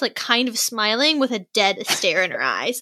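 ordinary talk, nothing marked

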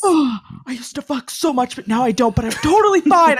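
high, loud mocking bro; mock Luke voice. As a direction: lampoon a fake-fine bro. Mocking Luke's edit.

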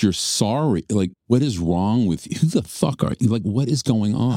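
high-pitched, exasperated retold questioning; incredulous confrontation. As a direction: demand answers in disbelief, pitch climbing. Retelling his shocked confrontation.

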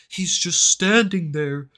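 high, slow, loud dramatic narrator; quoting the SpongeBob meme, slow and rising to a loud high finish. Retold or imitated. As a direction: draw out menacingly like a cartoon narrator. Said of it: "the fucking SpongeBob and Patrick fucking thing".

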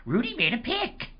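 retold excited call, pitch up on the second line; mild mock cheer. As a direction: call it out to the room at the pick. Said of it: "I would just turn and go".

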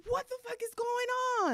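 high, stunned what-the-fuck; a high startled outburst; shocked disbelief. Retold or imitated. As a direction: squeal it out in disbelief. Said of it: "I'm like".

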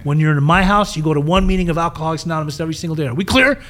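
put-on tough old-timer laying down rules, rising; drill-sergeant style lecture to a newcomer; stern boss voice. Stern sober-house boss voiced.

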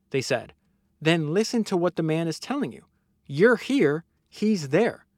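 measured, emphatic reading aloud; book narration. Acted. Host reads a banana tycoon's boardroom story, book narration. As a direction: read it out like an audiobook, punching key words.

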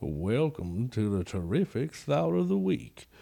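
put-on slow, drawn-out Creole accent jingle; Creole accent theme song. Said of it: "do the theme song in a Creole accent".

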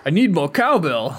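badly faked actor impression, half laughing; half-hearted celebrity mimicry; Christopher Walken. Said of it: "let's hear your Christopher Walken".

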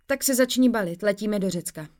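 loud, high cry of excitement; gleeful loud announcement; excited shout. Acted. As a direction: burst out with the news. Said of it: "Vykřikla jsem nadšeně".

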